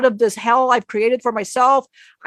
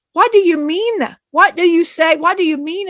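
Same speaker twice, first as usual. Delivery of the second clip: higher-pitched, insistent questioning; retold exasperated bafflement; 5 semitones higher than usual. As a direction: act out pleading to understand, pitch raised. Retold bafflement at teacher's words.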